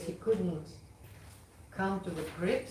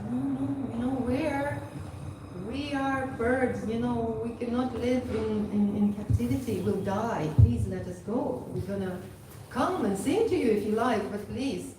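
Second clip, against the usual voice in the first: higher-pitched, mildly imploring voice; retold plea with a touch of urgency; pleading parrot; 5 semitones higher than usual. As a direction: beg lightly to be let go. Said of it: "and then they plead again".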